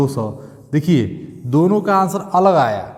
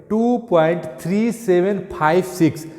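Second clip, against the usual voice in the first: each digit after point given as its own word; teacher demonstrating digit-by-digit reading; 3 semitones higher than usual. Shown as a demonstration. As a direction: read the decimal out one digit at a time. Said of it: "point के बाद digit को पढ़ा जाता है".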